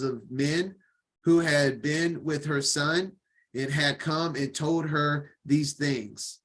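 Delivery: steady, measured Bible reading; formal reading-aloud voice; scripture reading. Acted. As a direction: read the passage evenly to the class.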